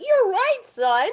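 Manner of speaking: high, goofy proud-parent voice; hammed-up proud father; mock proud dad. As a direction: say it like a sitcom dad. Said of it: "And they're like".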